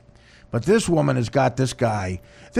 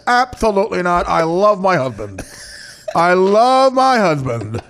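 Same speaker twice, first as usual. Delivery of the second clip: lisping husband; 2 semitones higher than usual. Retold or imitated. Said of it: "he's got that little lisp".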